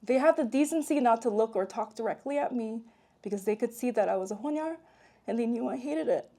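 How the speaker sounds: measured read-aloud delivery; memoir narration. A narrator's reading. Author reads childhood memoir to an audience, measured narration. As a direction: read your own story to an audience.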